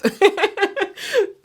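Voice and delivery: high, real giggling laugh; laughing at a grim thought; helpless laughing. Real, not acted. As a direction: burst into high laughter despite yourself. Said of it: "I don't know why I'm laughing".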